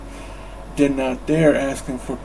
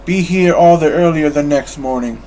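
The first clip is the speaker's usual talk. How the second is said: louder, stern command; gruff order; 7 dB louder than usual. Acted. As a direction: bark the order at him. Scrooge ordering his clerk.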